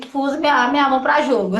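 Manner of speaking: breaking into a laugh; amused, laugh bubbling up. Real, not acted. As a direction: say it through rising amusement.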